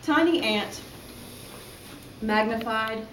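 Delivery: measured poetry recital with pauses between phrases; deliberate open-mic poem delivery; poem reading. Acted. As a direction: read your poem aloud, letting each image land. Reads own poem aloud.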